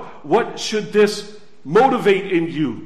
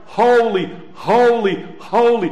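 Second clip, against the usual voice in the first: cherubim crying out; 3 semitones higher, 5 dB louder than usual. Retold or imitated. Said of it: "and they cried".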